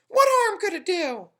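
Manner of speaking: tiny, high, loud tempting voice; pigtail voice. A narrator's reading. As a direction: lure him like a little devil. Pigtail coaxes Paul.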